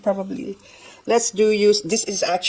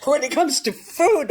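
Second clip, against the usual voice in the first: laughing; 11 semitones higher than usual. Real, not acted. Laughing at husband's reply.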